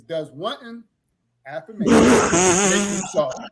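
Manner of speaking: mumbled New Jersey accent, loud and high. Real, not acted. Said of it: "my New Jersey accent".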